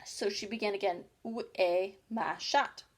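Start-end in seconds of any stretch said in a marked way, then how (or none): 1.2-2.8 French. Acted. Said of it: "first sentence in her French lesson book".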